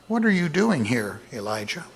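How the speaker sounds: gentle, merciful question; calm and gentle. Shown as a demonstration. Preacher voicing God gently asking Elijah, calm and merciful. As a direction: ask it calmly and kindly. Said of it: "I believe he said it in a very calm and gentle and merciful tone".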